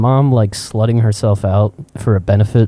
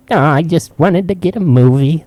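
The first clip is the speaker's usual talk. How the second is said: put-on higher old-man voice; lightly hammed-up innocent grandpa; imitated old man; 7 semitones higher than usual. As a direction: protest meekly as the old fellow. Old man's meek reply, imitated.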